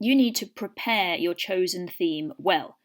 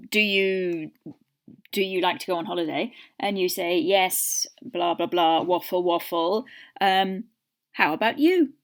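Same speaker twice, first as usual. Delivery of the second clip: mock exam dialogue. Shown as a demonstration. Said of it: "So if they're saying".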